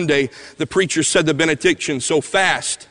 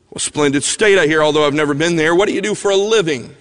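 chatty Southerner, a bit louder; heavy Southern accent; 3 semitones higher, 5 dB louder than usual. Retold or imitated. Old man chatting up a tired diner, casual Southern accent. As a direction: make casual small talk in Southern tones. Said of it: "in a heavy Southern accent, casually".

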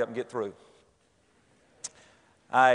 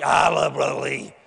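loud earnest reply; 4 dB louder than usual. Retold or imitated. Henry answers the pastor.

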